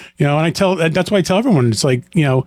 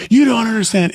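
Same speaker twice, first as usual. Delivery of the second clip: higher, exasperated insisting; frustrated plea; 8 semitones higher than usual. Retold or imitated. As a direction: insist it like an anxious son who can't get through. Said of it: "And I'm like".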